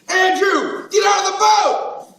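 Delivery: loud, high yell to Andrew; shout to brother. Retold or imitated. Peter yelling to Andrew to leave the boat. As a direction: call him out of the boat. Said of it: "there you are standing saying".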